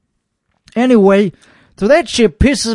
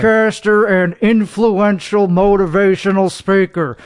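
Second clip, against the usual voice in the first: lightly put-on show host voice; 2 semitones lower than usual. Host opening his own show in a mild pompous voice. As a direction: introduce yourself like a self-serious host.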